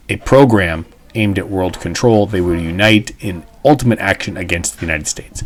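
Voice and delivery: measured, deliberate speech reading; a teacher reading an old radio speech to the class; reading a speech aloud. Acted. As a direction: read it out like a formal address. Teacher reads FDR speech aloud.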